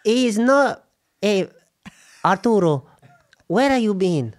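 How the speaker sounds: put-on Mexican mum accent. Mexican mum accent scolding her son Arturo for skipping school. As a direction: play the scolding Mexican mama in a mock accent. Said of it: "you're Mexican mum".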